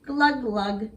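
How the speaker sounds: playful mock gurgling glugs; lagoon creature gurgle. Swamp creature saying good night, mock gurgle. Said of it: "that's how they say good night".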